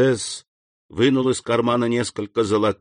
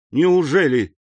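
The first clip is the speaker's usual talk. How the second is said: higher, louder, eager surprise; lively exclamation; 7 semitones higher, 4 dB louder than usual. A narrator's reading. Count reacting to the gatekeeper's hint, lively. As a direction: burst in with keen interest. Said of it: "живо воскликнул граф".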